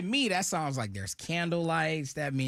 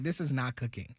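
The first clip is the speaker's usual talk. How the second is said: man doing a woman's voice. Retold or imitated. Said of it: "That's just my girl voice".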